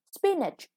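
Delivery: teacher modelling the new word spinach; stress on SPInach. Shown as a demonstration. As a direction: pitch the first syllable of spinach up. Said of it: "The first syllable is stressed".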